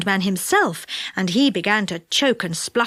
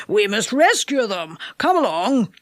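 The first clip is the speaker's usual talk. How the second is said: mildly worried character voice; anxious. A narrator's reading. What's-His-Name rallying friends to a rescue, mildly anxious. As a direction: urge the others on with a touch of worry. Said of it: "said What's-His-Name anxiously".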